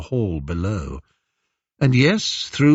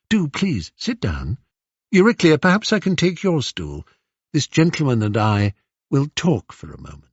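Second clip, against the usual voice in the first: composed, courteous royal voice, lightly raised; gracious queen; 5 semitones higher than usual. Acted. Penelope welcoming the stranger who taught Irus a lesson, gracious. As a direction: receive the stranger with polite authority.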